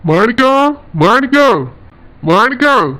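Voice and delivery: calling to someone out of sight. Acted. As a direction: call the son's name from a distance. Father calling son from afar.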